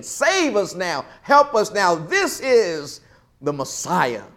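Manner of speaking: joyful cry. Retold or imitated. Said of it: "But they're saying it with joy".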